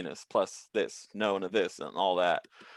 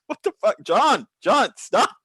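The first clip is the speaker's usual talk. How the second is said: much higher, loud panicked shout; alarmed yelling; 12 semitones higher, 7 dB louder, slower than usual. Retold or imitated. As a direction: yell at John to stop. Friends shouting at their coworker.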